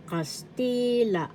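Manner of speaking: Kastila slow, with a high, long TI; stress on second syllable. Shown as a demonstration. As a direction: lift and stretch the middle of Kastila: kas-TII-la. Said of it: "The accent is in the second syllable ti".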